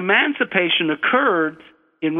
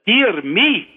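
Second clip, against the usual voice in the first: lightly voiced Scottish examiner, pitched up; Scottish accent; 5 semitones higher, 3 dB louder than usual. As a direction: imitate the examiner with a hint of Scottish. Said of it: "try to do my Scottish accent".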